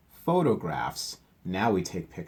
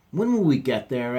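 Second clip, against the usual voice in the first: cubs; 4 semitones higher, 7 dB louder than usual. Acted. Cubs asking.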